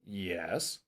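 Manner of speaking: YES drawn out, sliding upward; rising, lengthened YES; varied intonation. Shown as a demonstration. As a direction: say "yes" as a mild question. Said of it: "as many ways as you can".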